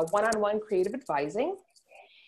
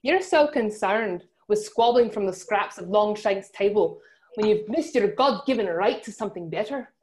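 mock Scottish accent. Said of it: "give the listeners a, a, a interpretation of your, uh, Scottish accent".

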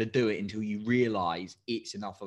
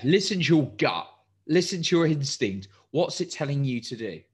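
funny mode; 5 semitones higher, 7 dB louder than usual. Real, not acted. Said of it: "going into funny mode right now".

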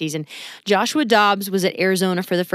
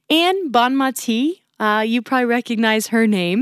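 smiling; 4 semitones higher than usual. Real, not acted. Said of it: "a little extra smile in my voice".

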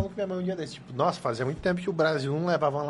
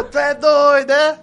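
"Tu é doido, é?" shouted much higher and louder, with Piauí rhythm; 11 semitones higher, 14 dB louder, much slower than usual. Shown as a demonstration. Demonstrating the rhythm of Piauí speech, high shouted lilt. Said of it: "Olha só o ritmo".

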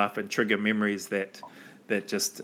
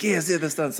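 mock broken-English accent; 7 semitones higher than usual. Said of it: "pretending to have these accents".

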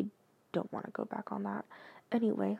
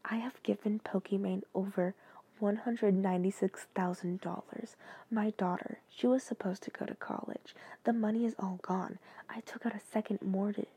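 dramatic confession reading. Acted. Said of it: "My obsession with Pokimane".

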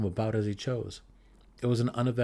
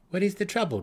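dark elf's question; 10 semitones higher, faster than usual. Acted. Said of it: "asked Belwer".

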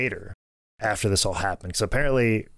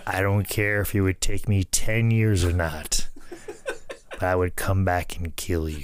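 Harley Race voice. Retold or imitated. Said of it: "in my best Harley Race voice".

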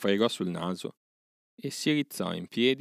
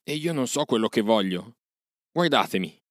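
exclaiming; 3 semitones higher, 4 dB louder than usual. A narrator's reading. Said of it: "esclamò".

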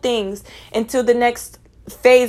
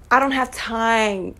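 slow, dismissive brush-off; slower than usual. Real, not acted. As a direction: drag it out, unbothered. Dismissing a hater slowly.

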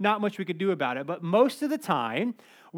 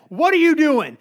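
loud, higher confrontational yell; demanding shout; 8 semitones higher, 10 dB louder than usual. Retold or imitated. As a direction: demand it while grabbing him. Neighbor grabs kid, demands.

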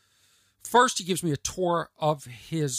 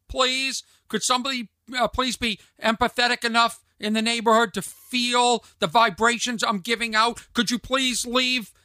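higher-pitched, hammed-up plea for rescue; comic cry for help, pitched up; mock pleading; 4 semitones higher, 4 dB louder than usual. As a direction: beg listeners for help in mock desperation.

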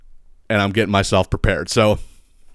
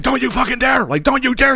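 sister's warning; 12 semitones higher than usual. Retold or imitated. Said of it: "And she's like".

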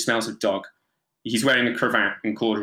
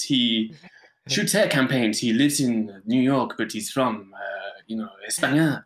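lightly put-on suave Spanish accent. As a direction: imitate a Spanish smooth talker. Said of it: "he would talk like this".

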